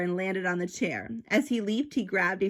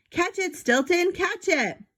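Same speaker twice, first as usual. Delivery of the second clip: much higher, urgent call to a friend; urgent detective call; 11 semitones higher than usual. Acted. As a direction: toss the line up high like throwing the camera. Detective tosses camera, urgent call.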